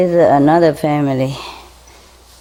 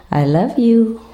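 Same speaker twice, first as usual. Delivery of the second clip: parrot voice; 6 semitones higher than usual. Retold or imitated. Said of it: "looked at my eyes and said".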